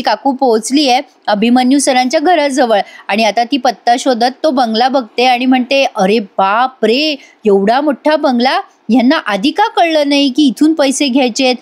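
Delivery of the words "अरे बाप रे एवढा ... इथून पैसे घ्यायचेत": a hint of a greedy aunt's amazement; amazed greedy aunt. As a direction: gape at the bungalow, lightly acted.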